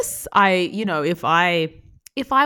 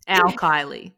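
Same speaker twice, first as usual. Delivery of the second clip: American accent. Shown as a demonstration. Actor proving they can sound American, American accent. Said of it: "That's me being American".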